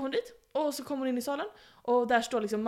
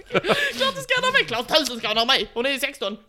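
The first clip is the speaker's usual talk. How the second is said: laughing mock king; 4 semitones higher, 8 dB louder than usual. Dauphin voiced, laughing.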